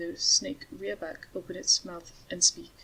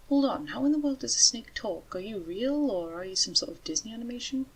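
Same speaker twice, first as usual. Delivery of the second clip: astonished; 4 semitones higher than usual. Acted. Man astonished at talking snake.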